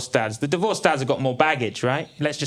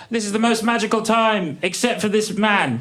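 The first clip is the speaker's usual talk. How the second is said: mock wonder; 8 semitones higher, 3 dB louder than usual. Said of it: "I was like".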